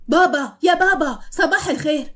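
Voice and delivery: put-on boy yelling to his sleeping father, mischievous; child calling out. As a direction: sing out to wake dad up. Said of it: "وصرخ".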